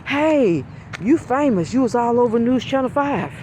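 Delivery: high, bubbly gushing; excited secretary. Retold or imitated. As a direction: gush like a thrilled school secretary. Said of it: "she was just so excited".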